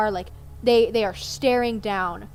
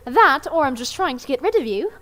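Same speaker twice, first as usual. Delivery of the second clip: higher, sly predatory tone; sly teasing; 4 semitones higher, 4 dB louder than usual. Acted. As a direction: tease them with a sharp grin. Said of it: "they grin".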